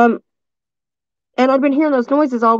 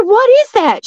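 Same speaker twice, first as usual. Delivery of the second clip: high, louder alarmed question; alarmed question at the creature; 10 semitones higher, 5 dB louder than usual. Retold or imitated. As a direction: demand an answer, rattled.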